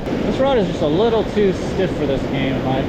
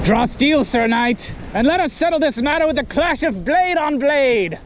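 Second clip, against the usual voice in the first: knight voice; 6 semitones higher than usual. Pretend. Knight duel challenge.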